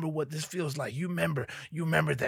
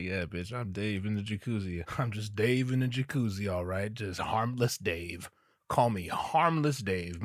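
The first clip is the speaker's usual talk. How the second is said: put-on lower, softer, creepy old-man voice, slowing down at the end; sinister old man; 6 semitones lower, 4 dB quieter than usual. Old man in jacuzzi to the young woman, low creepy murmur. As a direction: lean in as the harmless-seeming pervert. Dave voiced, lurking menace.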